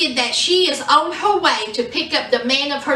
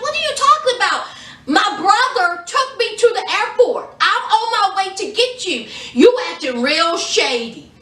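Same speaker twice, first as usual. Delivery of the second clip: put-on higher, fast, indignant girlfriend; indignant Megan; 4 semitones higher than usual. Megan confronts Michael higher and fast on the phone. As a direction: fire back as if she can't believe it. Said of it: "she's like".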